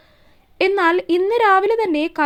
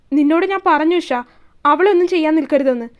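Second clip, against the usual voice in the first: louder, firm reprimand; angry warning; 4 dB louder than usual. Acted. Shiva warning Isha after she hits Ponnu, loud. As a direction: raise the voice to stop her.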